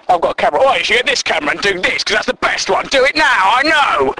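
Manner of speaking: bossy know-it-all, pitch climbing to the end; mock a pushy colleague who knows best; condescending know-it-all. Colleague telling everyone what they should be doing, condescending. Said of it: "he seems to talk down to everyone".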